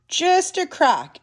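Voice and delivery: slow, high storybook suspense; drawn-out suspense. A narrator's reading. Storyteller as Little Mouse peeks out, slow suspense. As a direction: stretch it out, pitched high. Suspense as door opens slightly.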